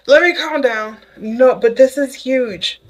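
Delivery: real excitement, trying to rein it in; gushing, barely calming down; excited. Real, not acted.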